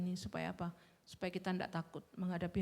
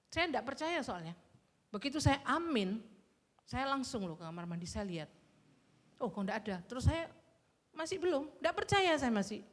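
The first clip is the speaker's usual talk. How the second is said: higher, louder, astonished retelling; amazed disbelief; 5 semitones higher, 4 dB louder than usual. Retold or imitated. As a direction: bubble over with amazement at the miracle. Retelling her sudden healing.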